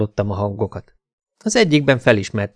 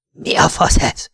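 an acted outraged yell; 6 semitones higher than usual. A narrator's reading. Naked man confronts the intruder, acted angry yell. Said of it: "ordította".

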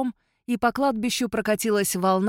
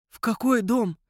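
wheezed; 2 semitones higher than usual. A narrator's reading. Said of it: "прохрипел король".

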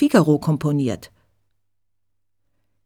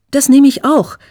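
blurted out quickly and loudly, higher; quick eager reply; 8 semitones higher, 8 dB louder than usual. A narrator's reading. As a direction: jump in fast before anyone else. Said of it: "sagt Eva schnell". (schnell und eifrig dazwischen)

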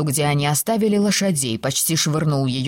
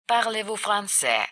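softer aside, "français" falling at the end; quiet footnote; 4 semitones higher, 5 dB quieter than usual. A narrator's reading. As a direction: read "Parlez-vous français" softly, as a footnote. Same words repeated as translation footnote. (тихая сноска)

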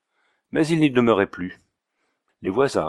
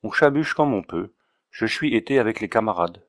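put-on Auvergnat accent. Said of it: "avec son aimable accent".

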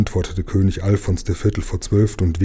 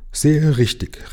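higher, drawn-out exclamation; calling out; 7 semitones higher, slower than usual. A narrator's reading. Herr Ärmel applauds the king's decision, calling out emphatically. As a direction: call out approval, stretching the words. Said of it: "rief Herr Ärmel".

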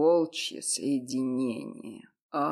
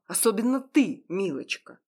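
higher, louder lecturing, cold and fed up; cold angry scolding; 6 semitones higher, 4 dB louder than usual. Acted. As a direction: scold her like a stern friend. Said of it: "злой и холодный голос Мака". (холодный злой выговор)

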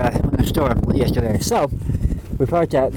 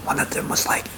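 whisper yelling; 4 dB quieter than usual. Real, not acted. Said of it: "Why are we whispering?".

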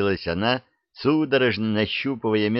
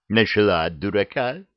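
snooty bored cat. Acted. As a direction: sniff it off like a haughty cat. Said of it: "фыркнул сверху кот". (фыркающий надменный кот)

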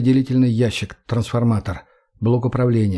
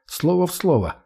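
smirking; 6 semitones higher than usual. A narrator's reading. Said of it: "усмехнулся я".

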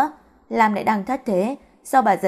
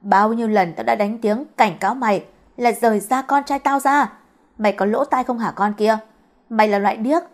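acted scolding of a disliked girl; mildly heated mother's tirade, pushing each insult; hissed insults. Angry mother berates girl to leave her son, hissed insults. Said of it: "những lời sỉ nhục từ miệng bà dần rít lên".

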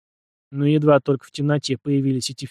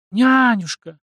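high, louder delighted cry; joyful gasp; 8 semitones higher, 5 dB louder, much slower than usual. A narrator's reading. Наталья greets her old nanny with joy. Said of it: "радостно ахнула Наталья".

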